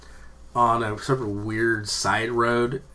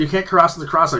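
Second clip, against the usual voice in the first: imitating angry pedestrian; 5 semitones higher, 4 dB louder than usual. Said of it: "he was all pissed off".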